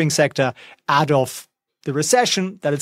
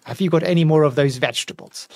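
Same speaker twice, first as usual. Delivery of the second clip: voicing the dog; 2 semitones lower than usual. Owner voicing dog Winston bored by market talk, mock unimpressed. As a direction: lightly voice a bored dog scoffing. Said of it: "He's like".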